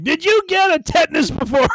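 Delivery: high, loud fussy elder voice; hammed-up alarmed older relative; fretting old uncle. Uncle showing his age over squirrel bites, mock fretting. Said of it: "shows his age where he's just like".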